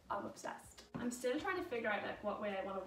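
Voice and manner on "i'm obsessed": breathy whispered aside. Real, not acted. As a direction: whisper it like a confession. Quiet aside after gushing.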